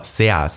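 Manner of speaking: put-on cool-kid "Servus" without its middle V; V dropped. Shown as a demonstration. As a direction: say "Servus" with no V, as "Seas". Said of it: "S E A S ohne das V".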